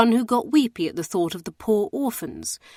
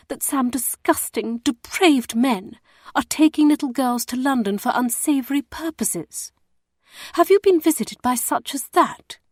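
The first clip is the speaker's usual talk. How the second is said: higher, scandalised and insistent; shocked probing lady; 5 semitones higher than usual. Acted. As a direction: demand a straight answer, feigning shock. Emmeline confronts him about rumours.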